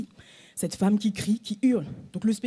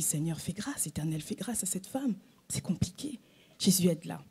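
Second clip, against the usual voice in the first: hushed plea under the breath; whispered prayer; 3 semitones lower, 9 dB quieter than usual. Retold or imitated. Woman on the metro platform praying under her breath. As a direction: pray softly so no one hears. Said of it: "je dis".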